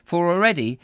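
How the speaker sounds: measured, emphatic storybook reading; story narration. A narrator's reading. Narrator reads comic story to listeners, expressive narration. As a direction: savour each descriptive phrase.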